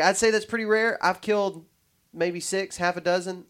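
put-on New York accent. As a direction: quote him like a New Yorker. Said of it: "thinking of this in the New York accent".

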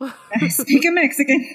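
put-on Mario-style Italian accent. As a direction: say it like a cartoon Italian. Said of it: "As I say it in an Italian accent".

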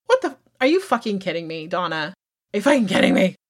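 exasperated outburst; worked up and incredulous; heated. Real, not acted. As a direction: really scold someone in disbelief. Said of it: "I'm real fucking heated about it".

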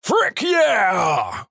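high-pitched imitated yell of Frick yeah; mock scream. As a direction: shout it high like a rowdy classmate. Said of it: "His thing is to scream".

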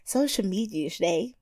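put-on soft whispery little-girl voice; breathy baby-talk host read; host's baby voice. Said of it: "Tyra Baby voice is on point".

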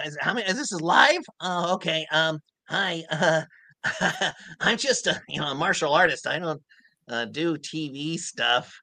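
high, halting, nervous little fighter; nervous Krillin. Pretend. Host asks what Krillin thinks, he answers nervous and high. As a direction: stammer shyly, then a sudden high shout. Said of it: "a little nervous".

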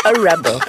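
"rebel" said REB-ul, first syllable strong; noun stress. Shown as a demonstration. Teacher repeats the noun for students, "rebel" stressed on REB. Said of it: "you are called a".

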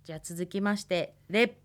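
ordinary talk, nothing marked

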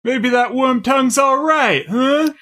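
high sly scheming tone; mock scheming voice. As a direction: tempt them slyly. Acted scene response.

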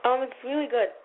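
talking through a toothbrush; words around a mouthful of toothpaste; while brushing teeth. Real, not acted. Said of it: "Are you eating?".

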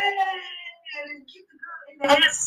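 slow wailing shout; mock crying shout. Imitating the woman in the film, wailing slowly. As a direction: wail it out like the woman in labor.

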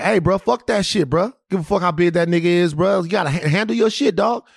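hyping a friend to fight; drunk hype-up. Retold or imitated. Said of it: "We doing that whole thing".

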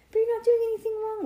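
high, quick, loud mock whisper; stage-whispered protest. A narrator's reading. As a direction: protest in a high, rushed squeak. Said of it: "whispered Ivy".

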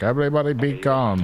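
a hint of a cockpit announcement; hijacker on the radio. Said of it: "air traffic control channel".

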